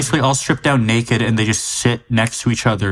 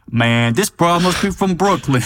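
higher-pitched mock movie character; imitating Italian guy; 6 semitones higher than usual. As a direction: impersonate the guy's line, hammed up. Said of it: "The way he said".

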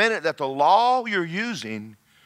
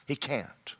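quiet emphatic echo; soft repeat; 9 dB quieter than usual. Real, not acted. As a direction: echo it much softer.

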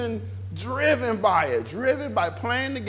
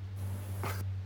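low, soft laugh; short low chuckle under the breath; 13 semitones lower, 16 dB quieter than usual. Real, not acted. Preacher laughing at the idea of holy preachers, low laugh.

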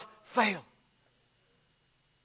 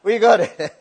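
loud, high "We got it" cheer; real delighted cry; triumphant cheer; 5 semitones higher, 9 dB louder than usual. Real, not acted. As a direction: celebrate getting the word out.

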